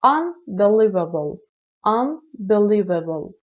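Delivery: "unbelievable" slow and carefully separated; slow teacher's enunciation of "unbelievable"; pronunciation demo. Shown as a demonstration. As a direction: model the word "unbelievable" slowly for learners.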